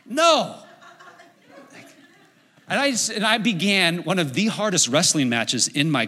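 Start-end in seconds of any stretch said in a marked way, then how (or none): 0.0-0.6 high-pitched, incredulous outburst; appalled, high-voiced refusal; stunned disbelief. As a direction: balk in shock, pitch leaping way up. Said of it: "I'm like".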